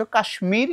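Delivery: কাশ্মীর with the ম sounded separately, kashmir; m pronounced. Shown as a demonstration. Teacher shows students how কাশ্মীর keeps its m, clearly. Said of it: "এখানে ম উচ্চারণ হবে আলাদা করে".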